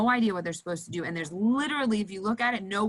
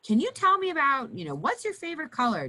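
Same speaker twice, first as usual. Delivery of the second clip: bright distraction; 5 semitones higher than usual. Shown as a demonstration. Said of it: "you just alter whatever's going on".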